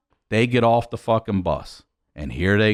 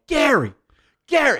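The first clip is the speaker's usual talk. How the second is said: calling out; 13 semitones higher than usual. Retold or imitated. Calling deaf cousin from bus.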